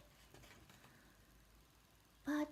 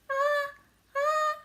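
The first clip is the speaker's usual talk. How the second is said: sneeze building; 11 semitones higher, 6 dB louder than usual. Acted. Gerald about to sneeze.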